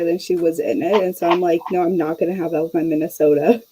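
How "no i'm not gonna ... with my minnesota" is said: put-on slipping into a Minnesota accent; lightly Minnesotan accent. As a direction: let the Minnesota vowels creep in. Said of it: "as I slip into it".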